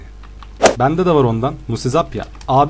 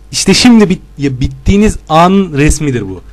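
gloating shout; 3 semitones higher, 6 dB louder than usual. Real, not acted. Gloating threat to opponents.

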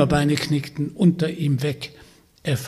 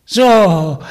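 witch calling out; 3 semitones higher, 8 dB louder than usual. Acted. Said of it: "rief die Baba Yaga".

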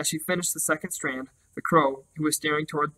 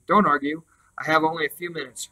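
authoritative. Acted. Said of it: "in a voice so authoritative".

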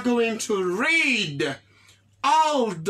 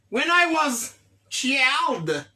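slow model sentence; 2 semitones higher, slower than usual. Shown as a demonstration. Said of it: "teacher models slowly".

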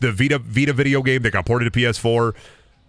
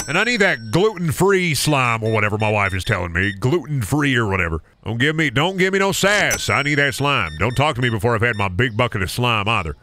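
hammed-up Southern shopper drawing out the questions; Southern accent. Out-of-town Alabama shopper asks staff for slime, hammed-up Southern accent. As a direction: play a Southern customer hunting the aisles. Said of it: "the funniest Southern accent encounter".

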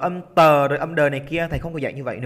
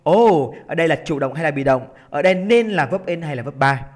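tag; 4 dB louder than usual. Acted. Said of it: "dừng lại và đặt câu hỏi ngay".

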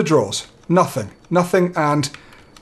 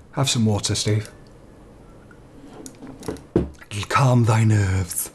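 quaint slow voice; 8 semitones lower, 5 dB quieter, slower than usual. Acted. Mock old-fashioned advice to self.

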